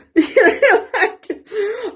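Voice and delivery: high loud laugh; laughter. Real, not acted. Laughing about her new friends, a loud high laugh.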